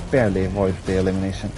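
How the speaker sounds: talking on a held breath; words squeezed out breath held; holding breath. Real, not acted. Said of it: "just realizing I'm holding my breath".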